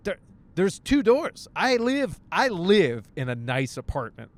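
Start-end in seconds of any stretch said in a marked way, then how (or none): 0.0-1.5 two drawn out with a rise, high and loud; stressing two. Retold or imitated. Counting the doors between him and the knock, stress on two. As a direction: lean hard on two, slowly. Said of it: "I'm like".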